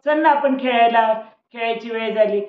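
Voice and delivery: put-on girl calling her friend out to play. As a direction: shout up to a friend to come play. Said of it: "नेहाने आवाज दिला".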